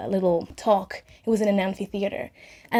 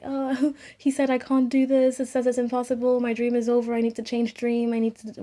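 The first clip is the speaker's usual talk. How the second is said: higher-pitched, mildly weepy retelling; mock crying; 4 semitones higher than usual. Daughter phoning her mother after the tutor's verdict, mock crying. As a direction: imitate a tearful wail, held back. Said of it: "like, crying and".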